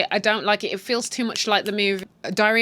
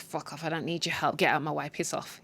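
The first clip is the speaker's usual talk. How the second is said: put-on grumbling old man; 4 semitones lower, 7 dB quieter than usual. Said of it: "he's like".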